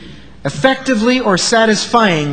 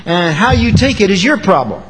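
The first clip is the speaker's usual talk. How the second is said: unkind tone; 2 semitones higher, 3 dB louder than usual. Shown as a demonstration. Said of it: "Or your tone can say".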